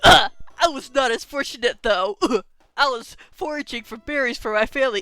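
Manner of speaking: storytelling broken by little vocal noises; quirky verbal tic. Acted. Character recounting capture, quirky tic between phrases. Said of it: "where you got that little quirk".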